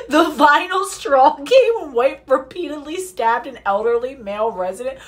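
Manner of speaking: reads the line again, this time in a British accent. Shown as a demonstration. Reading the news article to viewers in a put-on British accent. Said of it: "you wanna hear me do a British accent? Oh, I'll do one".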